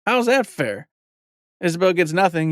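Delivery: dad protesting to his daughter, indignant. Retold or imitated. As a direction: object like a dad calling out an unfair deal. Dad objecting to daughter's scheme.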